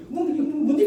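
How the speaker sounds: high mock-indignant Gyeongsang; boy retorting in Gyeongsang dialect. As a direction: snap back as a schoolboy. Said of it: "그래서 저는 이제".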